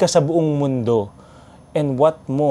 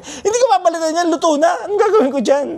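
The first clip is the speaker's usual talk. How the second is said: mock angry vendor; 14 semitones higher, faster than usual. Vendor refusing angrily, hammed-up high voice. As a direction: rant like a cranky old shopkeeper while laughing. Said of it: "nagalit siya".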